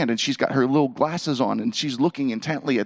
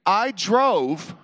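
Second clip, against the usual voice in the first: slow confession; 5 semitones higher, much slower than usual. Shown as a demonstration. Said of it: "formulate a sentence that... has never been said".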